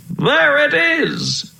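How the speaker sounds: very high, slow, joyful shout; high delighted call from the prince; excited cry. Acted. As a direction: sing it out in a discovery. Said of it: "he cried".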